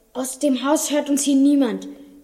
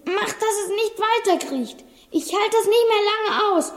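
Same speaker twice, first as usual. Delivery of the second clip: frightened prayer; 4 semitones higher than usual. Acted. Praying in fear of snake.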